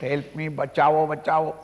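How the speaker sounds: lightly acted drowning plea; crying out. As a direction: call out help me, bachao. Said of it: "I am crying out".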